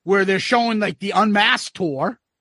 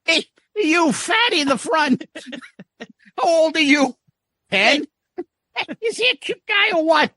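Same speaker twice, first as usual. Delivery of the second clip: high, teasing heckler voice; mock Ace heckling; 6 semitones higher than usual. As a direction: roast the kids in the front row. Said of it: "And Ace says".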